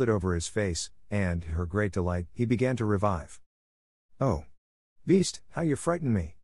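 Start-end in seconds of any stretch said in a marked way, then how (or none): 4.2-6.4 a touch of raised alarm, higher pitch; exclaiming. A narrator's reading. Beauty cries out to the reviving beast, mildly alarmed. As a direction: lift the voice higher in relieved fright. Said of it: "she cried".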